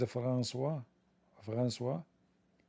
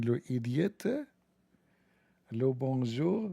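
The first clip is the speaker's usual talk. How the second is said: mock French; slower than usual. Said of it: "go in the airport in France".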